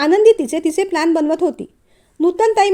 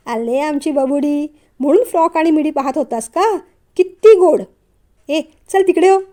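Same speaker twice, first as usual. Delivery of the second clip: teasing; 4 dB louder than usual. Acted. Pinching cheeks, teasing brother.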